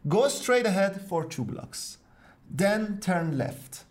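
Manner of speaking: deliberate, spaced-out example sentence; slow model phrase. Shown as a demonstration. Teacher gives learners the American directions, slow and deliberate. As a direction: say it slowly, a pause before the turn.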